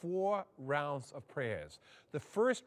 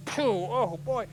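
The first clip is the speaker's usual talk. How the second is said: overheated gasp; 4 semitones higher, 6 dB louder, slower than usual. Retold or imitated. Heat rising in sweat lodge.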